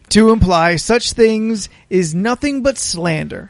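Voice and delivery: mock-dignified letter voice, clearly enunciated; pompous letter reading. Reading the friend's indignant letter to his pals, mock pompous. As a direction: read it like an offended gentleman's letter.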